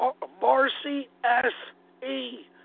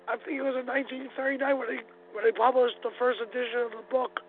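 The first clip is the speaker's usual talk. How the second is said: raspy allergic smoker's voice; thick hoarse New Jersey voice; smoker's rasp. Real, not acted. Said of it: "Sorry about my thick New Jersey allergic smoker's voice".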